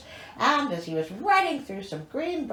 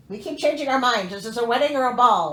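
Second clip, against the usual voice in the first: exasperated; 4 dB louder, faster than usual. Real, not acted. Exasperated at the story.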